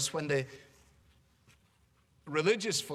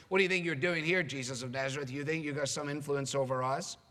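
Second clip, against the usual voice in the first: mildly challenging mock demand; confrontational challenge. Demon confronts Jesus of Nazareth, mildly challenging. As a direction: throw it out as a challenge, not an inquiry. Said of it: "sort of spirit of challenge".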